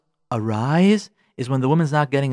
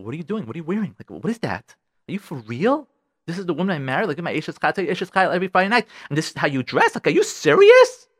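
mock outraged husband; 2 semitones higher than usual. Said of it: "Naturally, it's like".

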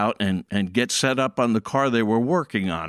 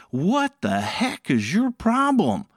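mock yell; 8 semitones higher than usual. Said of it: "I'm ready to yell".

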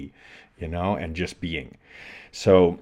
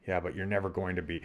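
quick, softer dismissive comeback; retold self-defeat; 7 dB quieter, faster than usual. Athlete answering his own hope in the mirror, defeatist. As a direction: undercut the hope quickly and quietly. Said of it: "this little dialogue just going back and forth".

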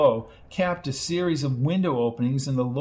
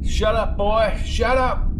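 put-on hushing the boy; 7 semitones higher, 4 dB louder, slower than usual. A narrator's reading. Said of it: "said Hank as he watched".

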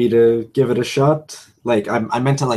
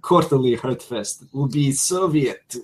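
put-on Russian accent. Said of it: "it's Russian for comrade".

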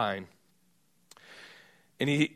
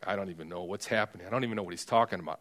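much softer and lower, rushed private thoughts; inner voice; 8 semitones lower, 9 dB quieter, much faster than usual. Retold or imitated. Groom thinking in his head while the master praises him, hushed. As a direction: mutter fast to yourself, baffled. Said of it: "in his head going".

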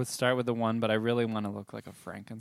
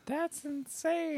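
surprised; much slower than usual. Real, not acted. Shocked at peeing ten times.

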